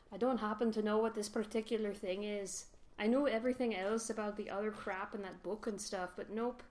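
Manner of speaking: a faint, bad Scottish accent, barely there; lightly voiced Scottish dwarf, clumsy attempt; half-hearted Scottish accent for the know-it-all dwarf; terrible Scottish accent. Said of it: "That's my terrible Scottish accent".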